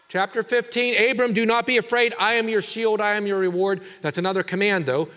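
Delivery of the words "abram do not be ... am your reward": higher, louder, quick reassuring proclamation; voicing God. God reassuring Abram through the preacher, raised and proclaiming.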